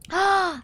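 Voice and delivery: loud startled gasp; sharp gasp. Real, not acted. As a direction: gasp at the sudden light. Game scene suddenly lights up.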